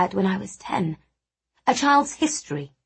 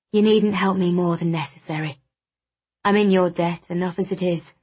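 a touch of a stoic man, reluctant to take help; slightly monotone character voice, mildly reproachful; lightly voiced proud, wounded friend. Wounded friend refusing extra help, lightly voiced and stoic.

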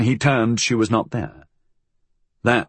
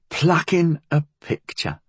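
put-on higher, grumbling young woman; muttering girl; 7 semitones higher than usual. A narrator's reading. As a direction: mutter it under your breath. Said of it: "Molly muttered".

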